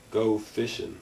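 put-on a light Southern Mississippi accent, low and easy; an understated Mississippi accent. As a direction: say it like a Mississippi man who just wants to fish. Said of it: "he said in his southern Mississippi accent".

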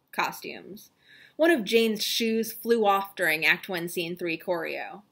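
mock-grave reading of dry backstage notes; hammed-up solemn reading of performance notes; dramatic reading. Shown as a demonstration. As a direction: read the report like an epic tale, lingering on each heading. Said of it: "I'm going to do a dramatic reading".

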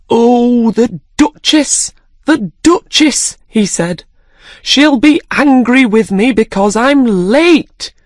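high, flustered rabbit voice; anxious rabbit hurrying past; fretful White Rabbit. Acted. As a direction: panic about being late. White Rabbit frets aloud.

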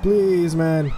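slow, drawn-out dread; shell-shocked, slow frightened pleading; scared. Real, not acted. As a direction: stretch the words out, pleading to be saved. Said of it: "I am scared as balls".

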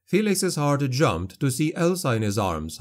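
usual speaking voice

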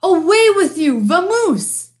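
exasperated dismissal. A narrator's reading. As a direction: drive the pest away. Bear drives the mouse out.

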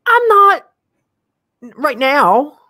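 high squeaky laughing denial; laughing it off with a high squeal. Real, not acted. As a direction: break into laughter mid-line. Laughing high after joke.

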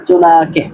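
চুনাকে with no sounded second n; second nun silent. Shown as a demonstration. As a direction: hold the "naa" of চুনাকে, no n before "ke". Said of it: "দ্বিতীয় নুনটা উচ্চারণ হবে না". (চুনাকে, দ্বিতীয় নুন উচ্চারণ না করে)

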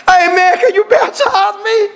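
high, excited plea with a laugh; lightly laughing high plea; eager voice. Retold or imitated. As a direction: ask for baptism like a giddy fan. Voicing a judge asking baptism.

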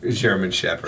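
put-on a baby talking way too deep. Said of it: "But like a deep baby voice".

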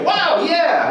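high, loud American-style whoop; wowed reply. Retold or imitated. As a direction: react thrilled, hammed up. Customers react to the wild act.

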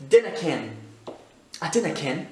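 broad Scottish "dinnae ken"; Scottish accent. Shown as a demonstration. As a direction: say it like a local Scot. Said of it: "très écossais". (accent écossais)

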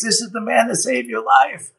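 pitched high, bursting with the news; a brother waking up, pointing to the hero, excitedly; excited announcement. Retold or imitated. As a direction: announce it like he's just jumped up pointing. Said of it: "jumps up and points".

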